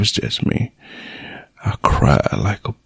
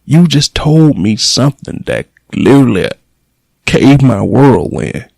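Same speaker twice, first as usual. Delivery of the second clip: real indignant anger; 4 semitones higher than usual. Real, not acted. Son venting at the nurse who called about mom, furious. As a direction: let the outrage pour out, building.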